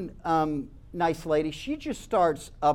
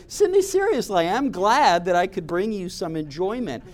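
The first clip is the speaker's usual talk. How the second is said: mock incredulous. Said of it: "And like".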